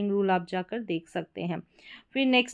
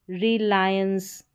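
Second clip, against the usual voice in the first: रिलायंस slowly split as "ri-laayens"; syllable by syllable; much slower than usual. Shown as a demonstration. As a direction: stretch out रिलायंस for learners. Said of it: "एंस करके उच्चारण हो रहा".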